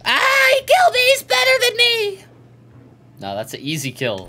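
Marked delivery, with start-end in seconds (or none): 0.0-2.2 high, loud yelp of defeat; high yelping outcry. Real, not acted. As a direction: yelp out, shocked at losing. Getting killed in the game.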